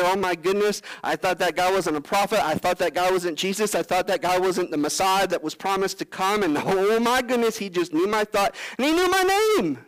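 awed Simon realizing Jesus knows him; astonished realization. Pretend. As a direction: gasp it out, dawning awe. Simon's astonished inner thoughts.

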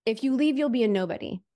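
a hint of the photographer yelling, pitch up; retold yell. Photographer yelling across the room, mild mock yell. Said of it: "the photographer yelled at me across the room".

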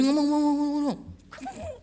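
high-pitched imitation of Mandarin chatter; mock Mandarin babble. Old Chinese driver talking on and on, mock Mandarin babble. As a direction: babble nonsense as mimicked Mandarin. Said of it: "Dia ngomong tuh pakai bahasa Mandarin".

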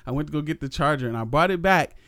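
breathless, panting between words; out of breath. Real, not acted. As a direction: talk while still winded. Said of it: "you hear me, I'm out of breath".

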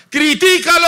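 high, loud devil's prod; tempting devil. Acted. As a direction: egg them on like a sly devil. Devil whispers temptation, voiced.

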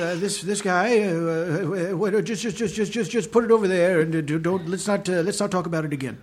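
put-on doddering, stammering old man; mumbling, hesitant old geezer; grumpy old man. Shown as a demonstration. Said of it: "What's your old man voice?".

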